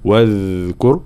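"واذكر" with a buzzing, held dh; voiced soft dhal. Shown as a demonstration. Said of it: "وصفة الجهر". (واذكر بذال مجهورة رخوة)

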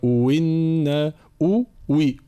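إن turned into وي, slow; hamza changed to waw. Shown as a demonstration. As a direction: replace the second hamza with a waw.

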